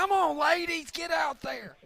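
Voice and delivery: high, loud raspy sideline yell; raspy coach voice. Retold or imitated. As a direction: bark it like a raspy women's coach. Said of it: "That's a really good impression".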